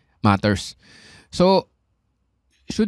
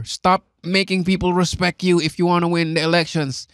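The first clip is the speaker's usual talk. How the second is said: imitating Bill Burr; 3 semitones higher than usual. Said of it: "ang sinabi ni Bill Burr".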